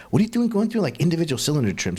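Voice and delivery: high, incredulous question; mock exasperated disbelief; imitating his own anxious reaction; retold disbelief. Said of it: "I'm like".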